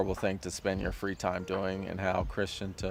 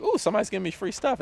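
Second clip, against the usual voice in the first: higher, fast delighted ooh; imitating a delighted visitor; 13 semitones higher, much faster than usual. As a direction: gush quickly over free stuff. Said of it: "and they're like".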